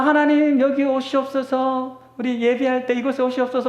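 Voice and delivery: a lightly voiced fervent worship leader calling down God; mock fervent invocation; imitating worship call. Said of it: "우리가 막".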